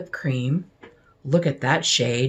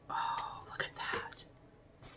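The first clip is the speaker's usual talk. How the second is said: a barely voiced whisper; awed whisper; 19 dB quieter than usual. Real, not acted. Vlogger marvelling at a lip shade, awed whisper. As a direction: let it slip out in wonder.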